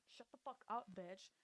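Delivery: soft, under-the-breath insult; mock hushed retort. Sarah answering Nina, hushed mock retort. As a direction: drop the volume for a rude aside. Voicing old lady's rude aside.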